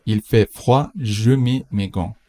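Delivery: slow, careful example sentence; slow model read. Shown as a demonstration. Teacher reads the example slowly to the class. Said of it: "teacher models slowly".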